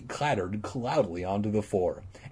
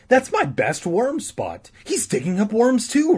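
declared; 12 semitones higher, 5 dB louder than usual. Acted. Regina needling her brother from the table, higher taunt. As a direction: announce it to needle him. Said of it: "Regina declared".

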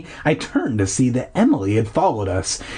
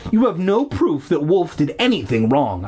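higher-pitched protest, little extra volume; mild acted shout; 4 semitones higher than usual. Narrator defending the dog to the sister, mild shout. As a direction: argue back, pitched up. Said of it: "I shouted".

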